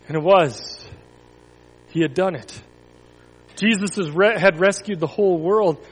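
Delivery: put-on expressive read-aloud for children, rising with the drama; storybook narration. A narrator's reading. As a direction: tell the crucifixion story to the kids. Reads Bible story to children.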